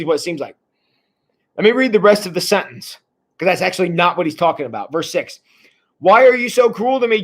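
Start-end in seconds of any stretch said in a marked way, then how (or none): 6.0-7.2 raised, mildly moaning complaint; moaned complaint. Acted. Jacob complains to his sons, lightly moaning. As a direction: moan it a little, voice pitched up. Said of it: "Jacob moaned".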